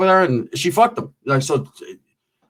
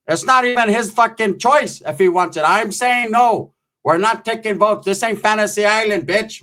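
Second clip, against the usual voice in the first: hint of an adamant aunt, higher voice; 5 semitones higher than usual. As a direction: refuse firmly as a fed-up aunt. Aunt flatly refuses in retold quarrel.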